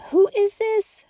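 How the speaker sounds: a high, breathless whispered wonder; whispered question. Acted. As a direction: whisper it in amazement. City asks about Jesus.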